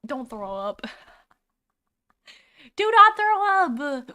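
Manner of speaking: hiccuping and laughing; laughing through hiccups. Real, not acted. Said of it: "I've got hiccups".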